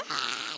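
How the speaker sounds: mock shriek of fright, short and sharp; a quick imitated scream at the hail; retold shriek. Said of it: "I am shrieking like a little girl".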